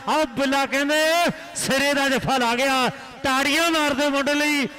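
fast, lively kabaddi commentary; frantic rural sports commentary. Real, not acted. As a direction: call the match live to the crowd.

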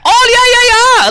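put-on high, squeaky girly fan voice; imitating a fan. Mocking the fan who greeted him, high and squeaky. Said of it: "And she's like".

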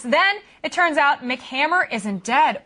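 slow, careful misreading off the prompter; teleprompter stumble. Real, not acted. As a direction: read the name wrong, slowly. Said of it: "It's a rapper".

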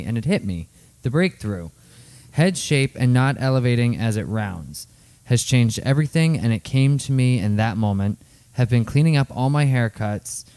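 clear, slightly lifted read-aloud voice. Real, not acted. Co-host reading a fan's thank-you note aloud, clear reading voice.

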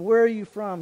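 loud, harsh demand from a disguised governor. A narrator's reading. Joseph, hiding who he is, loudly demands the brothers' origin. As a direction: snap the question at the strangers. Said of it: "he demanded".

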